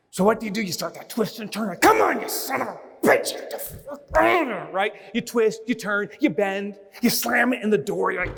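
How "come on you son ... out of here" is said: mock frustration. Fighting the empty tube.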